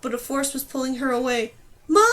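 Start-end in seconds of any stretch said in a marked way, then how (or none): 1.9-2.0 yelling. Acted. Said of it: "she yelled".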